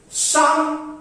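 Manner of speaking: "Something" split in two beats, "thing" stressed; syllable-by-syllable stress demo. Shown as a demonstration. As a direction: pull "Something" apart to show the stress on "thing". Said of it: "Some unstressed".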